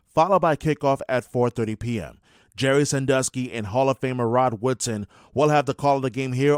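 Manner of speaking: even, measured radio news voice; news read. Acted. Anchor reading sports news to radio listeners, steady newsreader delivery. Reads the station news bulletin.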